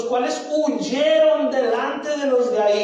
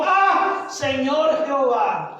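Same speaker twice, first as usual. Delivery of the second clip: retold cry out; much slower than usual. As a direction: imitate an anguished outcry, only half raised. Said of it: "levantó un gran grito y dijo". (clamor moderado, imitado)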